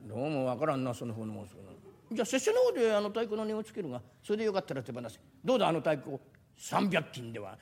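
low, measured samurai voice; a pompous retainer talking down to a merchant. Acted. (低めの武士の声)

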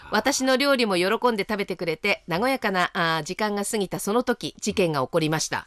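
はきはきと投稿を読み上げる; 区切りよく聞き手に読んで聞かせる; お便りの朗読. Acted. 投稿メールの朗読. (ラジオのお便り朗読)

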